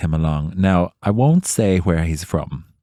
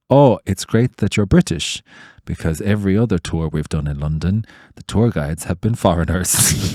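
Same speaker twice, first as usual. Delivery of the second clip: mock tourist; 4 dB louder than usual. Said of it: "He said".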